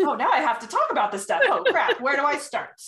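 high and loud, giggling through it; a laughing fluster at a sudden chance to talk; laughing mock panic. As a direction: play it flustered, half laughing. Acting flustered inner voice, laughing.

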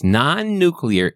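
ordinary talk, nothing marked

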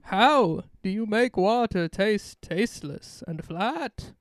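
put-on mixed British accent. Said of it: "a whole different voice for that second little bit".

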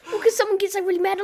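high, loud, laughing explanation. Real, not acted. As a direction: talk through laughter.

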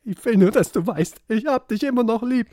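hammed-up fragile lover; fragile singer voice. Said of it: "und sagst".

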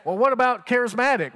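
bright and curious, like a sudden challenge; eager question. Acted.

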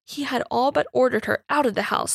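plain reading voice

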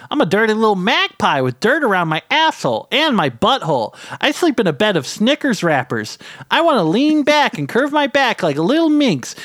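high, frenzied trash-man yell; ranting trash creature. A narrator's reading. Trash man goads the man above, frenzied yell. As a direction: shriek demands like a depraved gremlin.

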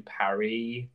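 "Paris" said French-style, as Paree; "Paris" drawn out with a French-style ending; affected pronunciation. Real, not acted. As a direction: say "Paris" without the final s, like Paree. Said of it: "Never say Paris again".

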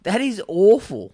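slow, drawn-out disgust; appalled. Real, not acted. Friend hearing the breakup story, appalled and slow. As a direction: stretch it out, appalled.

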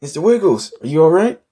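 high, loud fussing over a pet; worried excitement. Acted. Owner checks on his rescued cat, alarmed and excited. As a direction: cry out with anxious delight, rising at the end. Anxious reunion with lost cat.

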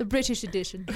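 put-on British accent through a laugh; amused British host voice; mock British accent. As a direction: announce it in joking British. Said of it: "you went very British".

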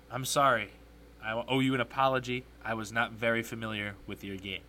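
hint of a celebrity impression, dropping low; Shaquille O'Neal. Host formally apologizing to a commentator, light low impression. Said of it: "in my best Shaquille O'Neal impersonation".

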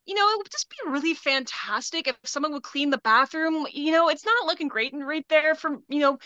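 friendly on top, demanding underneath; chirpy retail voice with an edge; customer service voice. Shown as a demonstration. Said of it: "calling it my customer service voice".

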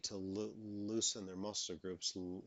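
real stutter on the words. Real, not acted. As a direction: let the words catch and repeat. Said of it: "like I'm doing right now".

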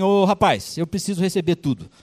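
a king demanding his money back, voice rising; king demanding payment from his servant. Acted. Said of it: "ele falou assim".

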